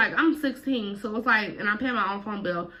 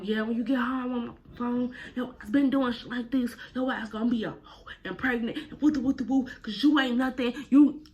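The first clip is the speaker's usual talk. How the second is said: lightly raised mom rant; a hint of the ranting mother; mama cussing her daughter out, lightly voiced; imitating mama going in; 4 semitones higher than usual. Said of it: "So she like".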